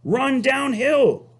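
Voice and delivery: high, slow cow voice; slow lilting cow advice; cows suggesting. Acted. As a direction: coax him along slowly and high. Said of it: "suggested the cows".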